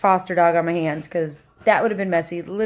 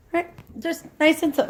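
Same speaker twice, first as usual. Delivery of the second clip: coaxing; 5 semitones higher, 3 dB quieter than usual. Shown as a demonstration. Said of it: "coaching the dog to walk slowly".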